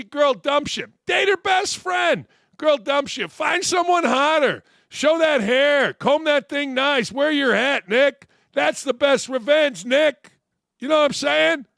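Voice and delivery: fired-up advice. Real, not acted. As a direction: pump him up with the lesson.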